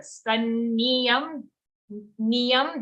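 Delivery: "Sanniyam, niyam" with a distinct y before am; clear first y. Shown as a demonstration. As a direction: bring out the y in "niyam". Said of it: "there's the first ear".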